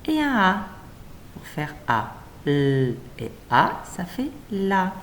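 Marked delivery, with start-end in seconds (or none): 2.5-3.0 "L" as a long held llll; letter sound. Shown as a demonstration. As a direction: hum out the consonant "L" on its own. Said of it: "L qui fait le".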